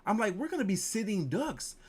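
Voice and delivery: mock panic. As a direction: hurry through it like panic is rising. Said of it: "I was like".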